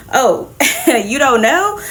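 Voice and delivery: slow, giggling through the teasing question; slow laughing mock surprise; laughing tease. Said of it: "they drop the bombshell".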